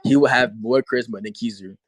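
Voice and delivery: deliberate restatement with emphatic pauses; slowly restated. Real, not acted. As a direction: break it into careful, separated chunks. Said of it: "I'll say it slowly".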